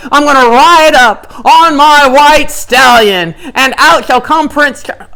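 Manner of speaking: Cinderella's dream. Retold or imitated. Preacher mocking Naaman's daydream, slow dreamy fairy-tale grandeur. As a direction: sweep through it like a princess dreaming. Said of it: "that's Cinderella's dream".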